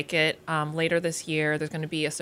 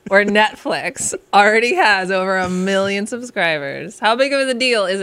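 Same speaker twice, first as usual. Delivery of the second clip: slow, louder epic trailer narrator; movie trailer voice; 3 semitones higher, 5 dB louder than usual. Pretend. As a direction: draw it out like a blockbuster trailer. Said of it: "Movie trailer voice it".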